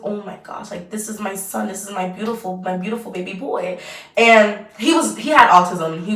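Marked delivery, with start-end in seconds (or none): 0.0-3.8 awed hush. Retold or imitated. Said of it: "I was like".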